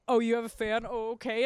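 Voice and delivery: host imitates ex-boyfriend doubting her fan, low dismissive voice. Lightly mocking, sceptical ex. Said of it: "he was like".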